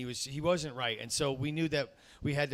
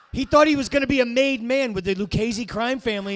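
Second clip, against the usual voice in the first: higher, louder, giggling through the story; laughing mock excitement; 7 semitones higher, 10 dB louder than usual. Comic telling the crowd the dog's mob fantasy, laughing. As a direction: push it up into a laughing rush.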